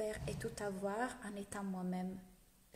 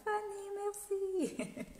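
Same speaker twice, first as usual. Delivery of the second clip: high, drawn-out squeal of thanks; delighted thanks; 11 semitones higher, much slower than usual. Real, not acted. Streamer answering a viewer's praise, delighted high-pitched thanks. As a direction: coo it out high, holding the vowels.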